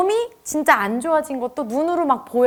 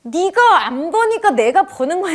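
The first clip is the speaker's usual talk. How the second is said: louder, higher defensive snap; defensive retort; 5 semitones higher, 4 dB louder than usual. Retold or imitated. Wife pushing back at her nagging husband, louder and defensive. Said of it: "이런 마음이 생겨요".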